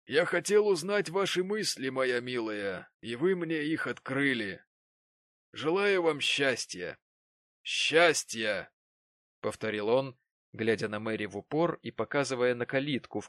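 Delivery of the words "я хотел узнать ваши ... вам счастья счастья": slow, grave, ironic blessing; old Martin. A narrator's reading. Old Martin bitterly wishes Mary happiness. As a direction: wish her happiness bitterly.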